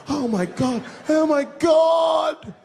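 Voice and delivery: high, loud panicked screams; screaming crowd. Retold or imitated. Park crowd screaming after Mickey's head comes off, high and loud. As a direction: shriek it like a shocked crowd, slowly.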